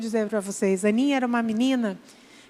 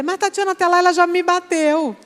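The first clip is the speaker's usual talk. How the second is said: lightly voiced whiny husband, higher; a hint of a protesting husband; objecting husband; 6 semitones higher, 3 dB louder than usual. Husband objecting to preacher, mildly higher complaint. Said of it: "Vai dizer".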